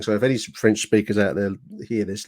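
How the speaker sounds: ordinary delivery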